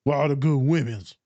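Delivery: lightly imitated male friend's lament; a hint of a mocked buddy voice; boy's odd delivery. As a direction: mimic the boy's odd way of asking. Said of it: "why you say it like that?".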